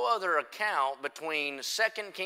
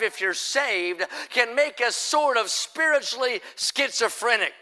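raised-pitch, driving revival preaching; emphatic pulpit delivery, pitched up; forceful preaching; 5 semitones higher than usual. Real, not acted. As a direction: preach it with rising fervor.

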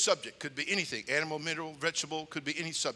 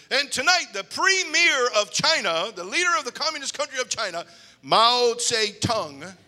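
much higher, louder, slow announcer voice; news announcer; 8 semitones higher, 11 dB louder than usual. Retold or imitated. Anchor announces China's leader on evening news, slow booming. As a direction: drag out the name like an anchor. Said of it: "news announcer goes".

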